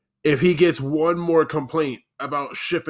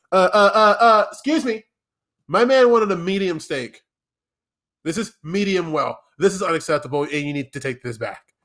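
mock girlfriend complaint; 3 semitones higher than usual. Girlfriend scolding the waiter, mock indignant. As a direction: play the pushy girlfriend sending a steak back.

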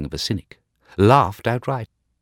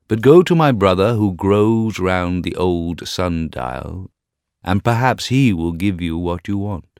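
rose tree voice; 6 dB louder than usual. Acted. White rose tree answers.

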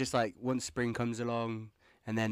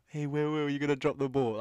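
mock heckling; 4 semitones higher, 4 dB louder than usual. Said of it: "niggling at you".

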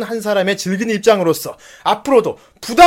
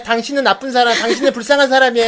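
pitying line demo; 3 semitones higher than usual. Shown as a demonstration. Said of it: "라고 해, 빨리".

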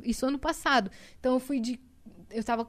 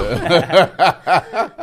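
laughing loudly; 6 semitones lower, 13 dB louder than usual. Real, not acted. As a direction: crack up laughing. Laughing at own story. (risada alta)

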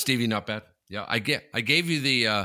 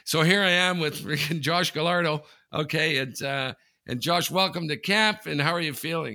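higher-pitched imitation of a keen reporter; eager interviewer; 6 semitones higher, 4 dB louder than usual. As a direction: play a new reporter opening his big interview. Acts out rookie media guy interviewing.

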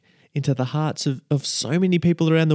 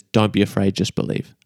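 firm Jesus quote; 6 semitones lower than usual. Retold or imitated. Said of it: "Jesus, he snaps".

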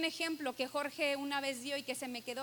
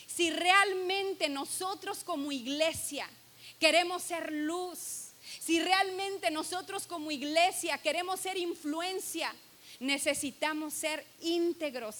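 fervent appeal; 3 semitones higher than usual. Real, not acted. Preaching appeal.

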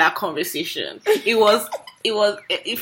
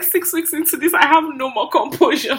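high-pitched comic exasperation; laughing as a man losing his composure; mock confession of giving up; Lincoln; 4 semitones higher than usual. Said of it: "He's like".

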